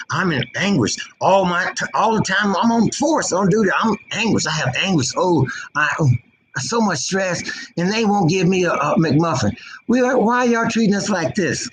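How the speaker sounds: high-pitched mock lament of a cop; hammed-up distressed whine; mock anguish. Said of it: "now I'm crying because".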